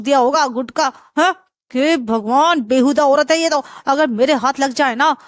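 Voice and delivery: a fussy neighbour fuming at the mess; mildly angry complaining. Acted. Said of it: "Sharma जी नीचे से लड़ने लगते हैं".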